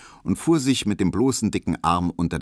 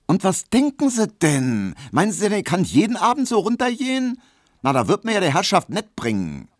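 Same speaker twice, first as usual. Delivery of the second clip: high, loud, quick indignant maid; 13 semitones higher, 4 dB louder than usual. Acted. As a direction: scold him as the offended maid. Hedwig empört sich. (hohe, laute empörte Magd)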